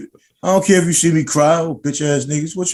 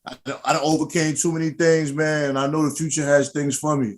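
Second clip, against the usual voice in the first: quiet emotional; 5 dB quieter than usual. Real, not acted. Talks of overcoming hardship.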